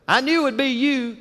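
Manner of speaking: put-on high, certain child's voice; little boy's voice. Son telling his father he knew, high and sure. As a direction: sound like a small boy sure of his dad. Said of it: "He said, Daddy".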